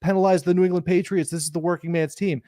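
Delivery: mock Boston accent, lightly done; a hint of a Boston bro accent; fake Boston accent. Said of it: "with his fake Boston accent going".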